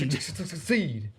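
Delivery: mock stutter.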